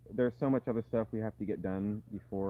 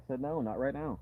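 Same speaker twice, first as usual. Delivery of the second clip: firm repeated no, a bit higher; insistent correction; 4 semitones higher than usual. Real, not acted. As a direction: say it again, firmer now. Repeating refusal to child.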